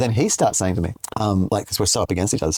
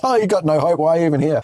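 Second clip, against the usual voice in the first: mock scoffing jibe; 6 semitones higher than usual.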